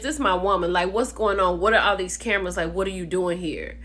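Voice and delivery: imitating a man's firm challenge; mock chesty boyfriend standing his ground; lightly voiced man asserting his claim; saying it with chest. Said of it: "saying it with his chest".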